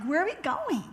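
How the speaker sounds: high, loud wail of a question; mock bewildered. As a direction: cry it out as if dragged along. She answers rushing sister-in-law, bewildered.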